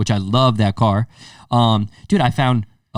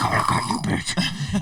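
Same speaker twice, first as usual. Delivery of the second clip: whispering; 8 semitones higher than usual. Retold or imitated. Catching the cheater on camera.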